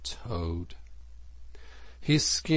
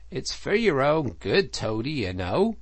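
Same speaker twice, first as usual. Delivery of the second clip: higher, lilting, kindly reassurance; 5 semitones higher, 4 dB louder than usual. A narrator's reading. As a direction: coax a friend for their own good. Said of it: "said the Rat kindly".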